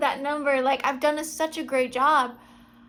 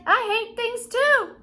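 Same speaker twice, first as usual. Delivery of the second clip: higher, louder slow declaration; playful confession; 7 semitones higher, 4 dB louder, slower than usual. Retold or imitated. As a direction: proudly admit it, slowly. Retold own reply to friend.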